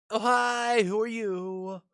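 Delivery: put-on peppy girl voice. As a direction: bounce in with a cheery hello.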